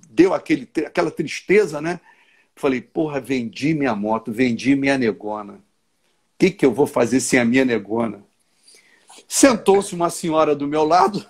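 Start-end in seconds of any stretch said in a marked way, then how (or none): 2.8-8.2 sad lament. Retold or imitated. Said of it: "as lágrimas vieram".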